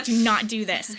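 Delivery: a firm, exasperated mock order to self; mock self-scolding. Yoga student pleads with herself in class, mock scolding.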